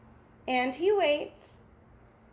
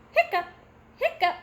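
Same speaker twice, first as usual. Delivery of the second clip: high little hiccup squeaks; playful hiccup noises for kids; acted hiccups; 5 semitones higher, 4 dB louder, much faster than usual. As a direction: pop out each hiccup high. Pete hiccups in story.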